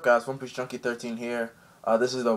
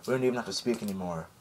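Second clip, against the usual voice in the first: hushed telepathy; 2 semitones lower, 6 dB quieter, faster than usual. Retold or imitated. Telepathic quiet exchange.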